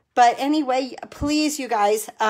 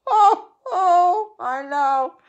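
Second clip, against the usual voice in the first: teary laugh; 7 semitones higher, 4 dB louder, much slower than usual. Real, not acted. Laughing at her own crying.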